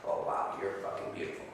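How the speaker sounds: overwhelmed whisper of amazement; extreme awed whisper. Shown as a demonstration. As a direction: gasp it out, floored by her beauty. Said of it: "Now it's very extreme".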